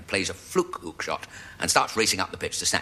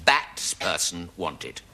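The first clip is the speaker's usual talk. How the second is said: slow announcement; 5 semitones lower, much slower than usual. Shown as a demonstration. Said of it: "put an advert in the local paper".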